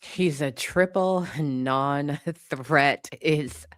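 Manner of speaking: laughing through the words. Real, not acted. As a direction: laugh while saying it. Laughs mid-line.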